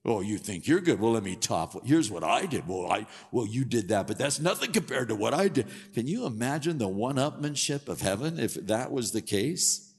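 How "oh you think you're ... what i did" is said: competitive, a touch louder bragging; lightly voiced rival boasting; one-upping brag. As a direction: try to top the other guy. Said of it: "a bunch of people brag".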